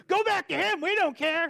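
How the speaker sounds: high, loud curt brush-off; mock dismissal. The shop staff sending him back, a loud curt brush-off. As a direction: wave him off like a surly mechanic.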